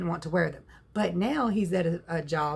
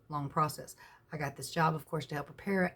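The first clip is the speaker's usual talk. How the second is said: normal talking voice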